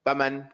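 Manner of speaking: "faman" with the first a cut short; wrong vowel length. Shown as a demonstration. Teacher shows what you can't say, mispronounced. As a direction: rush the "fa" in "faman". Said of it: "You can't say".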